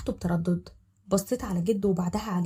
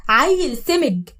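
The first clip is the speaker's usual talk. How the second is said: احتقار بطيء; 4 semitones higher, 7 dB louder, much slower than usual. Acted. تشتم زين في سرها.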